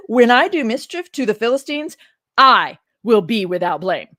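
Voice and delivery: Samson declared loud and defiant. Retold or imitated. Samson justifying his revenge to them, loud and defiant. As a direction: proclaim it like a man who feels wronged. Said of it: "Samson said to them".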